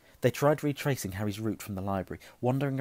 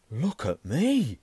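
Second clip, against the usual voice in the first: loud, drawn-out astonishment, pitch raised; amazed; 4 semitones higher, 8 dB louder, much slower than usual. Acted. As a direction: stretch the words out loudly in awe. Ron transfixed by his image.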